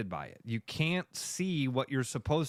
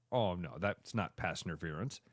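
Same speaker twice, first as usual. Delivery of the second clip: soft, low mock concession; sheepish backing down; 8 semitones lower, 6 dB quieter than usual. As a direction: imitate a fan quietly admitting the mistake. Fan backs down after replay.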